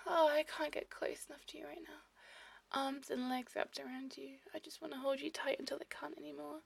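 breathy, tender half-whisper; intimate whisper. Acted. Lover holding a partner tight, intimate whisper. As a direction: murmur it close to a partner.

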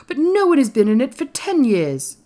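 high, loud protest; crying out. A narrator's reading. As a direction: cry it out in disbelief. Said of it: "cried Colin".

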